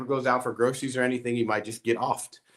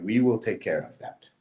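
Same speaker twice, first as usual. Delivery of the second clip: understated, matter-of-fact promise; imitating a calm, assured friend; calm reassurance; 2 semitones lower than usual. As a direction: quote him calmly, without fuss. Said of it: "he said it so calmly".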